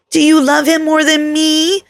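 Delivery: put-on high, pleading child; little girl voice. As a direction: ask it like a worried kid. Child asks mother anxiously.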